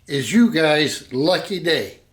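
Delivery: stiff, nervous robot voice. Real, not acted. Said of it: "why do I sound like a robot?".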